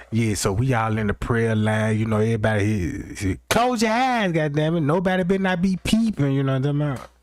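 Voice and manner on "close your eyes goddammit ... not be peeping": raised, higher-pitched scolding command; bossy order. Acted. Inmate to the prayer circle, bossy mock order. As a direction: order the whole circle about.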